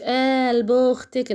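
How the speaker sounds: very slow, stretched "قلب اختك"; slow mocking "قلب اختك" in Nouga's style; Nouga's catchphrase drawn out. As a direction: drag out every sound of "قلب اختك" like Nouga's signature line. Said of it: "اللي هي نوجه".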